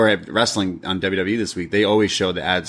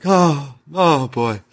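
mock bawling; 2 semitones higher, slower than usual. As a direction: imitate someone bawling. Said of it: "just bawling his eyes out".

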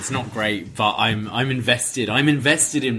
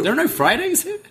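high, incredulous question; can't believe what you just heard; shocked disbelief. Real, not acted. Co-host reacting to no Fridays in Canada, shocked high question.

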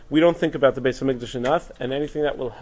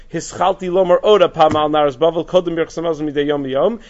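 louder declaration; emphatic quote; 7 dB louder than usual. Retold or imitated. Teacher quoting the rabbi's return to the custom, loud. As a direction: proclaim his return to the custom. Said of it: "And then he says".

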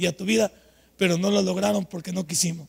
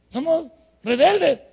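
"rebeldes" stretched slow, higher and louder; slow emphatic repeat; 7 semitones higher, 5 dB louder, slower than usual. Acted. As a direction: hammer home "Somos rebeldes" slowly. Repite con énfasis predicando. (repetición lenta y enfática)

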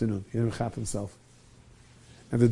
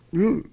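short, higher-pitched beastly grunt; 9 semitones higher than usual. Retold or imitated. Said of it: "He's like half beast".

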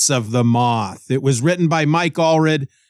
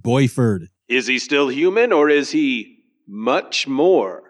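dramatic trailer voice. Acted. Teaser intro for the episode.

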